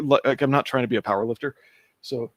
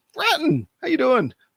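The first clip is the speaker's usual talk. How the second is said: cracking voice, higher; 13 semitones higher, 4 dB louder than usual. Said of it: "Sorry about the, the voice cracks".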